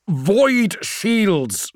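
high, forceful command; shouted order. A narrator's reading. Call repeating the order to a distracted Friedrich, shouted. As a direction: call it out urgently. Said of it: "shouted Call".

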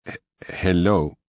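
slow, halting machine voice; a newly woken computer voice stumbling; stammering synthesized voice. A narrator's reading. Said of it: "A synthesized voice came from the speaker".

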